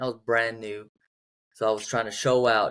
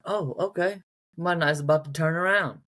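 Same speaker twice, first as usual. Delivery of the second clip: higher, delighted reaction; pleasantly surprised; 6 semitones higher than usual. Retold or imitated. His reply to her call, pleasantly surprised. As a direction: react like luck just turned.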